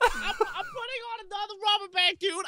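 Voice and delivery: laughing. Real, not acted. Laughing while adding rubber band.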